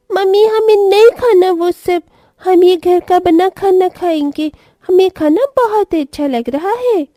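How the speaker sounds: put-on child voice. Children refusing mom's food.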